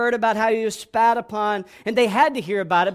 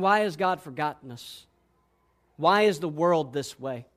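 lowered, softened plea; helpless; 6 semitones lower, 4 dB quieter than usual. Acted. Voice of the helpless questioning God, low and helpless. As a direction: ask it softly, as one with no power. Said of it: "you hear the voice of the helpless".

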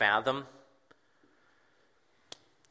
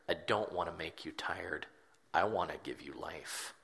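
soft and intimate, dropping at times to a whisper; a hint of Jesus gently offering rest; Jesus, tender reassurance; 3 semitones lower, 3 dB quieter than usual. Jesus promises the burdened reader rest, softly reassuring. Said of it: "He says".

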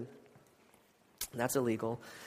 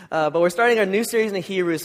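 allergy-stuffed nasal tone; 3 semitones higher, 4 dB louder than usual. Real, not acted. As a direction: talk with a stuffy nose. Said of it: "I sound a little nasally".

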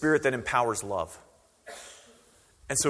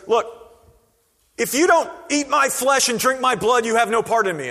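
higher, louder exasperated Jesus; preacher voicing a frustrated Jesus, higher and louder; flustered outburst; 10 semitones higher, 7 dB louder than usual. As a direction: blurt it out, fed up with the crowd. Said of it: "he gets so flustered that he goes".

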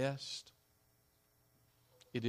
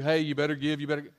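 louder, demanding "you better give"; mock shouting preacher; 2 semitones higher, 9 dB louder, much faster than usual. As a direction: pretend to bark at the congregation. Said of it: "I'm not up here shouting down at you".

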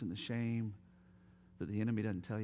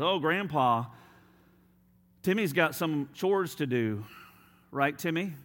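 sly big sister; 7 semitones higher, 10 dB louder than usual. Acted. Sally dodging chores again.

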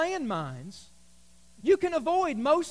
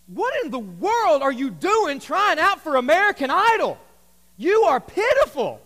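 louder, scornful disbelief; mock scorn; 3 semitones higher, 5 dB louder than usual. Pastor voicing viewers scoffing at a contestant. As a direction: scoff at the hopeless singer. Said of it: "you think to yourself".

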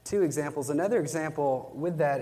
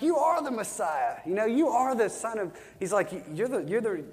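higher, eager, stumbling acted declaration; preacher voicing a thrilled disciple proclaiming Jesus, pitched higher; awed excitement; 7 semitones higher than usual. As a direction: retell Nathanael tripping over his words in awe. Nathanael's awed confession, retold.

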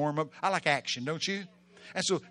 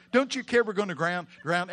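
raised, louder pleading; screamed plea, easing off; 4 semitones higher, 5 dB louder than usual. Acted. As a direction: cry out, letting the scream subside. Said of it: "they scream at Jesus".

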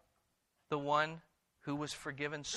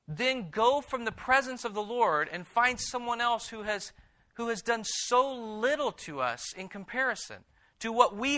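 preaching at full force; impassioned rebuke; 4 semitones higher, 7 dB louder than usual. Acted. Impassioned rebuke, how dare you.

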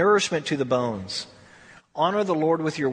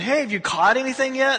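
a cheery raised shout across the water; hollered call; 6 semitones higher than usual. Retold or imitated. Jesus calls from the shore to the boat: high cheerful holler. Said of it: "He's going".

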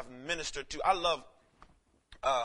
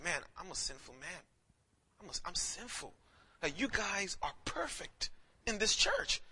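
ashamed confession; 7 dB quieter than usual. Retold or imitated. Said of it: "he says".

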